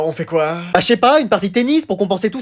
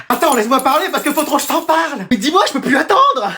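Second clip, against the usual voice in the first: excited gossip; 5 semitones higher than usual. Acted. Copains surexcités par un potin.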